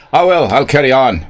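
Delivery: loud mock Scottish pirate. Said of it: "it's coming out Irish".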